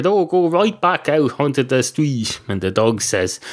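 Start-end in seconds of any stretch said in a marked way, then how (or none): 0.0-2.4 lightly acted calling over; mild mock shout. Barman calling to the dog at the door, mild mock shout. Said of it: "the bar counter shouts over".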